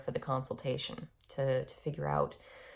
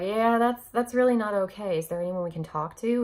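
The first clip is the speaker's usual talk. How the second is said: raised indignant voice; 5 semitones higher, 6 dB louder than usual. Retold or imitated. Confronting nurse over clinic policy.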